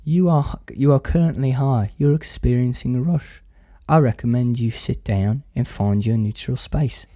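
lightly imitated unruffled calm; measured, slightly softened mock guru; Danny's calm voice. Quoting Danny settling a panicking friend, evenly calm. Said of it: "that ever calm voice where he goes".

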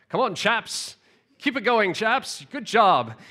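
restrained British encouragement; reserved British cheer. Retold or imitated. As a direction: cheer them on like a reserved Englishman. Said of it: "he's a British guy, so he was kind of, you know, reserved at first".

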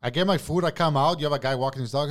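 ordinary delivery, nothing marked

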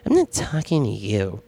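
lightly imitated pissy little kid; a hint of a petulant child's voice; childlike, pissy. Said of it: "she said it in a childlike voice".

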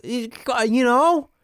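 high, slow, put-on sleepy retort; mock attitude. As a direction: imitate her huffy reply, drawn out high. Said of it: "giving me attitude".

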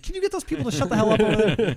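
high loud fast yell; Sonny yelling. Retold or imitated. Sonny yelling at the crowd to shut up, high and fast.

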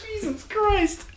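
exasperated shout. Real, not acted. Exasperated at the antics.

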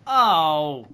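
loud, squirming oh of disgust; disgusted groans. Retold or imitated. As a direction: groan like it makes you sick. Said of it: "you're like".

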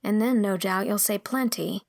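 put-on anxious girl begging not to be interrupted; earnest, flustered girl. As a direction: plead nervously as an earnest girl. Voices girl pleading to finish.

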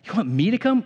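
"You want me to come?" lifted as a startled question; Jesus echoing the request in surprise; surprised question. Shown as a demonstration. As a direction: ask it back, taken aback. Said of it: "it's different when it's a question".

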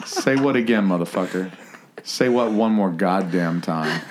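low, slow, lightly menacing Samuel L. Jackson; a hint of Samuel L. Jackson's threat; Samuel L. Jackson impression. Host giving the line as Samuel L. Jackson. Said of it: "doing his best at Samuel L".

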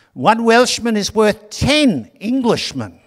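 high, loud, slow Welsh boast. Retold or imitated. The Welshman taunts the English captain, a loud boastful Welsh accent. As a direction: call it out of the fog in a poor Welsh accent. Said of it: "I can't do a Welsh accent".

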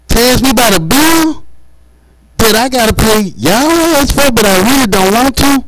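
high, exasperated complaint at bill collectors; exasperated rant. Real, not acted. Comic fed up with bill collectors calling, exasperated rant.

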